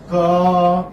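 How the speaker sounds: "ka-" held long and level; drawn-out syllable. Shown as a demonstration. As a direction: sustain the vowel of "ka-" for the class. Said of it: "I'm repeating this diphthong".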